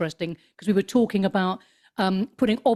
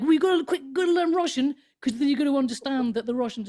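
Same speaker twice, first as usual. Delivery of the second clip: high-pitched imitation of Cold War panic; mock panic; 6 semitones higher than usual. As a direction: parody a nation flapping in alarm. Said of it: "sort of Cold War panic".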